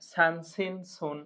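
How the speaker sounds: "সান সিন সোন" with a thin, whistling s; "সান সিন সোন", sibilant from the front teeth; whistled S. Shown as a demonstration. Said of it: "শীষ হবে".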